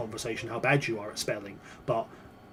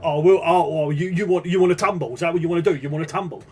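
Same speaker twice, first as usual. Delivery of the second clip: louder, a hammed-up challenge to fight; mock threat; 6 dB louder than usual. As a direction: taunt them like a pub brawler. Character picking a fight.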